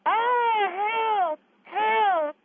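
high, wailing cry for help; mock damsel cry for help. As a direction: wail like a lady who saw a mouse. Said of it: "this is what you sounded like".

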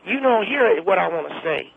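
put-on preachy old Southern woman; Clara Bingham voice. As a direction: scold her like a churchy grandma. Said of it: "that was me doing her voice".

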